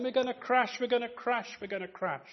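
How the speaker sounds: mock panicked cry, high, trailing off; imitating children shouting in fear. Children on the coach panicking, mock shout. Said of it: "All the children were shouting".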